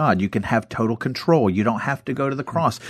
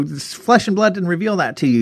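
excited praise; 8 semitones higher than usual. Retold or imitated. Jesus praising Peter, retold.

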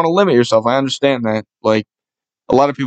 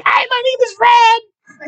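very high, drawn-out squeaky voice; squeaky, cartoonishly high-pitched imitation; squeaky Fred impression; slower than usual. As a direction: squeal it slowly, imitating a squeaky internet character. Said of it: "in his squeaky ass voice".

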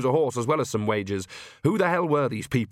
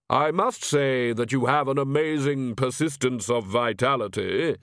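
hollow Death voice; slower than usual. Acted.

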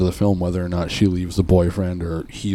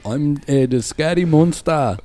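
slow, higher mock monster voice; alien impression; 8 semitones higher, slower than usual. Asked for his best alien, he hams up a slow monster voice. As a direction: drag it out like a goofy scary alien. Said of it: "Do, do your best alien impression".

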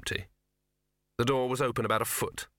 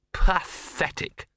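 slow, breathy-voiceless, higher and louder sigh of disgust; miserable; 7 semitones higher, 4 dB louder, much slower than usual. A narrator's reading. Dog despairing at the other dog's eagerness, miserable. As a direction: drag it out in weary misery. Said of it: "said Gaspode miserably".

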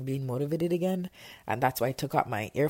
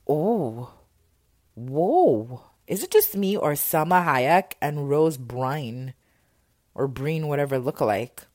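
excited confusion; 7 dB louder, slower than usual. Real, not acted. Confused by lookalike actresses.

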